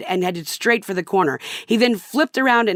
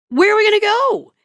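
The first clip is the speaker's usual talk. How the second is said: high, louder whiny husband voice; 5 dB louder than usual. Retold or imitated. Husband protests to wife about the late hour, high and whiny. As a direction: whine like a put-upon man.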